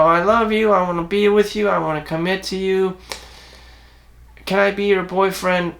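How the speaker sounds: a lightly voiced needy boyfriend; geeky eager suitor. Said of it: "more geeky, have a high-pitched tone voice".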